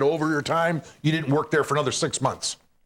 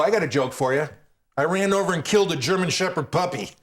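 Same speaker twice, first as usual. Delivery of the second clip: nasty mean comic; 2 semitones higher than usual. Retold or imitated. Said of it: "His shtick was, um, nasty, mean".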